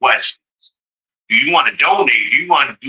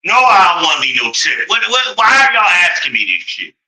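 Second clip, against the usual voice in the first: exasperated complaint; 4 semitones higher than usual. Retold or imitated. Rant at checkout prompts.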